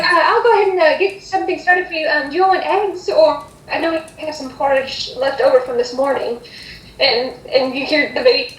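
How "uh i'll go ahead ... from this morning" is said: helpful hostess. Acted. Hostess offers eggs or porridge to guests, lightly eager. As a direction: offer the options eagerly, easing down as you go.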